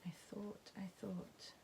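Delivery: whispered "I thought, I thought"; "I thought" repeated in an unvoiced whisper. Real, not acted.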